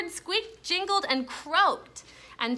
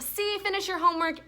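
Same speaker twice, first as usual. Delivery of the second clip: higher, quicker teasing list; playful rising; 9 semitones higher, faster than usual. Acted. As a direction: build up the joke playfully. Multiple choice joke, rising.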